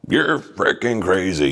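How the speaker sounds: mock-amazed boss, stretching the words; Vince McMahon. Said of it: "I hear, you know, Vince go".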